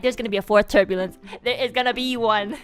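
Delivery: frantic prediction. Retold or imitated. Rushing, sure of more turbulence.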